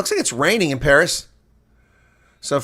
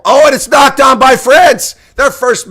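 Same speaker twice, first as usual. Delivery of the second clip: excited shout; 9 semitones higher, 7 dB louder than usual. Real, not acted. Commentator reacts to French knock-on.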